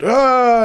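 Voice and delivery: high drawn-out "ah"; mock cry from under a sheet; imitated groan. Man pops up from under sheet.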